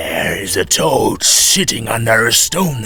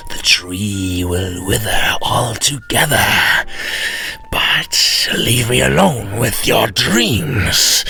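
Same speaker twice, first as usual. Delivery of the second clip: whispered devil; slower than usual. Acted. Devil sleepy irritated.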